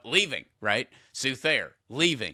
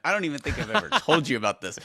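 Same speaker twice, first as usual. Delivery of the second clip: amused, higher voice with a laugh; cracking up; 5 semitones higher, faster than usual. Real, not acted. Guest tickled that host brought up the Cowboys, cracking up. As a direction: let a laugh break into the words. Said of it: "I am cracking up".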